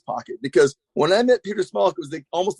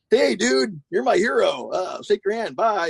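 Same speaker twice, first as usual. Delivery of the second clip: higher-pitched imitation of a starstruck greeting; super shy fan; 5 semitones higher, slower than usual. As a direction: act out a shy hello to your hero. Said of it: "like, super shy".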